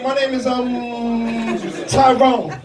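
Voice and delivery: slow, with a long dragged-out um; mock slow-witted news interviewee; hesitant interviewee. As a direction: imitate a man stalling before his own name. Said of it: "he gonna say, Um, about eighty-eight times".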